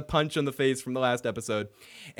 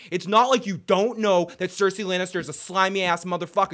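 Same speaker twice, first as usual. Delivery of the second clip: usual speaking voice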